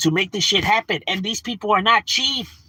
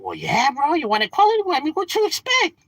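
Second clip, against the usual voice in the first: higher, sarcastic mock reply; mock smug retort; 10 semitones higher than usual. Answering taxpayers who complain about the bill, smug mock. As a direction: toss it back with a smug shrug.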